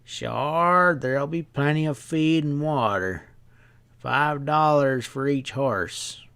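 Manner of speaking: a hint of a knowing stableman; sly stableman. Stableman quoting price.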